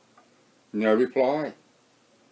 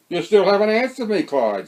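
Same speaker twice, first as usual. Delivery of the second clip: louder, calling after him; raising his voice; 5 semitones higher, 5 dB louder than usual. A narrator's reading. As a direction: call out to a man walking away. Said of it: "raising his voice".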